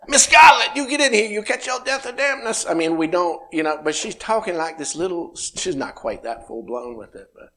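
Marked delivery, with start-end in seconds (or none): 0.1-2.7 Southern belle voice. Retold or imitated. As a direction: play a Southern mammy scolding Miss Scarlett. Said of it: "Our little three-year-old's talking like that".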